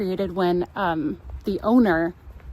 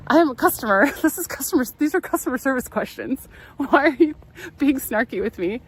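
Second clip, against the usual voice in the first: higher-pitched, half-laughing protest; mock indignation; 4 semitones higher than usual. Customer protesting to a snarky employee, laughing mock indignation. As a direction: act out an exasperated retort with laughs breaking in. Imagined retort to annoyed employee.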